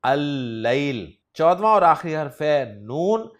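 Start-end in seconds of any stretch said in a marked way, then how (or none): 0.0-1.1 अल-लैल said very slowly as al-lail with one long doubled l; अल-लैल: deliberate, syllable by syllable; slow Arabic demo. Shown as a demonstration. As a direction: drag out अल-लैल, the l held long. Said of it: "तो लाम को नहीं पढ़ेंगे".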